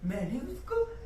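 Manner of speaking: slow words through creepy laughter; laughing confession. Acted. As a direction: gloat slowly, giggling. Confessing killing mother, laughing. (धीमे हँसते हुए क़बूलनामा)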